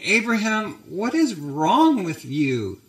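mildly acted hurt, high start slowing down; hurt Sarah. Wife confronting Abraham after being pawned off, mildly hurt. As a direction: lightly play a wounded, disbelieving wife. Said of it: "Look at her sadness".

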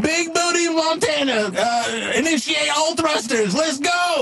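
excited sidekick shouting commands; cartoon captain's send-off; rallying launch call. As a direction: launch the ship with gusto. Leroy launches the ship.

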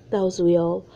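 coughing for real. Real, not acted. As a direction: cough through the words. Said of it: "that was a real".

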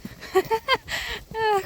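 high burst of giggling; amused laugh. Real, not acted. Rider amused by her horse's antics, high laugh.

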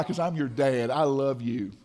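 low, soft reassurance; tender father. Retold or imitated. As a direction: say it gently, as a dad to his kids. Father voiced to his kids.

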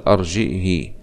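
أرجئه with hamza, softly ending "hi"; kasra, no sila. Shown as a demonstration. Teacher correcting to the second reading, أرجئه with final "hi". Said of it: "بالكسر والهمز بلا صلة".

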